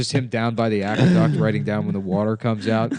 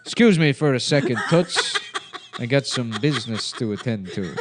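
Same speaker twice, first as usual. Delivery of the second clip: noir detective. Acted. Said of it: "It's a hardball detective".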